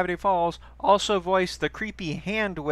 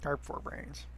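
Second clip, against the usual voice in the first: canyon echo; 12 dB quieter than usual. Pretend. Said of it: "did the Echo voice thing".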